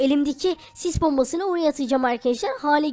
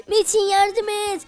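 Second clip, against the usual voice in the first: higher, drawn-out plea for rescue; calling for help; 6 semitones higher, much slower than usual. Acted. Attacked girlfriend calling Metin during the fight, pleading cry.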